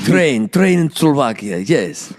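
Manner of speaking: playful fake Russian Slovak accent; hammy Eastern European accent, Russian Slovak. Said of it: "That is my Russian Slovak accent".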